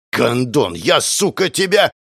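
rising angry threat, loud at the end; furious threat. Acted. Vasya threatens the hidden killer, furious. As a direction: threaten him with rage.

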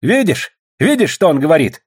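high, indignant complaint; angered. A narrator's reading. Young Old Believer stung by a remark, angry complaint. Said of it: "рассердился молодой старовер".

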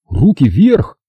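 loud snapped order at gunpoint; commanding shout. Acted. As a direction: bark it out, hands up now.

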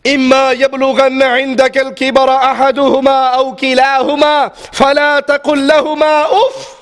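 chanted Arabic verse; Quranic recitation. Acted. Preacher quoting the Quran, recited in chant. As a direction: recite it melodically.

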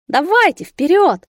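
shouting. A narrator's reading. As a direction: hurl it at both parents in rage. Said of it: "Я кричал". (яростный крик, гораздо выше и громче)

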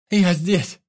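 high, loud frightened cry; cried out. A narrator's reading. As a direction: call out to the rescuers. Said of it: "крикнула женщина". (громко и высоко выкрикнуть)

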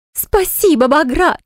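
high-pitched squeal of delight; squealing with joy. Acted. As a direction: squeal it like a jackpot winner. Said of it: "Она завизжала от радости".

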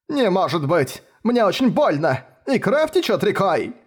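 high, complaining wail of an injured man; whiny wounded man. A narrator's reading. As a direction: overplay the pain. Wounded detective keeps complaining. (жалобно ноет раненый)

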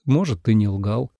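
ordinary delivery, nothing marked

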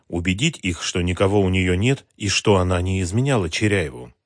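usual speaking voice

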